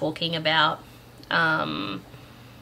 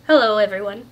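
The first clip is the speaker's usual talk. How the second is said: a hint of an Irish lilt, louder greeting; attempted Irish accent; 2 semitones higher, 7 dB louder than usual. A narrator's reading. Mister Ethan greets the children in a loose, faint Irish accent. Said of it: "in a thick Irish accent".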